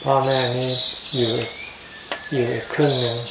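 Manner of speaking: ordinary talk, nothing marked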